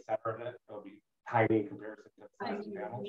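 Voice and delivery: faint voice, far from the phone; speaking too far from the mic; phone held away. Real, not acted. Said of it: "it's really hard to hear him".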